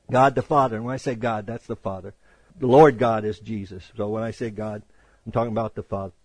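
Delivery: a quiet, low-pitched parenthesis; explanatory aside. Real, not acted. Preacher clarifies to listeners whom he means by God, low quiet aside.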